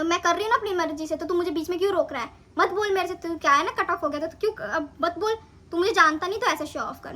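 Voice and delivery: mildly heated retelling of telling someone off; retold angry outburst. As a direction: re-enact snapping back at a mate, with moderate force. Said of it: "मैंने ऐसे गुस्से में बोला". (हल्के गुस्से की नकल)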